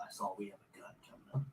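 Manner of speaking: low, fast, soft murmur; quiet muttering. Real, not acted. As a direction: mumble it quickly under your breath. First take, muttered before silly repeat.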